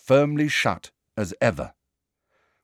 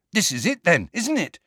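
eager, higher-pitched excitement; excited; 9 semitones higher than usual. A narrator's reading. Ron to his friends at a locked door, excited. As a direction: pitch jumps up on the excited question. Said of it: "said Ron excitedly".

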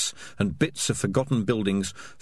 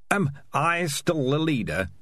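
put-on weak old rat; 6 semitones higher than usual. A narrator's reading. Old dying rat leader speaks.

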